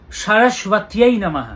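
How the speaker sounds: সরস্বত্যাই drawn out slowly syllable by syllable, then নমঃ; slow, careful recital of সরস্বত্যাই নমঃ; correct Sanskrit pronunciation. Shown as a demonstration. Astrologer showing viewers Sanskrit diction, সরস্বত্যাই নমঃ slowly sounded out. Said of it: "সংস্কৃত উচ্চারণটা ঠিকঠাকভাবে জানতে হবে".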